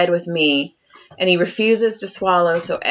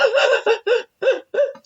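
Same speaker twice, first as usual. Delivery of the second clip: startled noise. Retold or imitated. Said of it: "you scared the fuck out of me".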